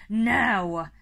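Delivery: loud, drawn-out shouted order; sudden loud bark of command; yell. A narrator's reading. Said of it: "he yelled".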